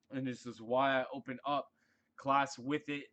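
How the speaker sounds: talking through hiccups; holding back a hiccup mid-sentence; suppressing hiccups. Real, not acted. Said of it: "Sorry, I have the hiccups".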